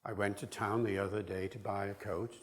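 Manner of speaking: "I went to town the other day" in alternating weak and strong beats; traditional stress-timed rhythm. Shown as a demonstration. Lecturer demonstrating traditional British English, iambic rhythm. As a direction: let "town", "day" and "coat" land on the beat. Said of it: "That's traditional British English".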